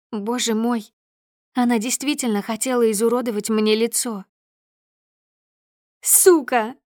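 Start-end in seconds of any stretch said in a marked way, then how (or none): 6.0-6.8 spat out loud and furious; a raging woman's scream; furious shout. A narrator's reading. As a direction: curse her with animal rage. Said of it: "кричит Снежана".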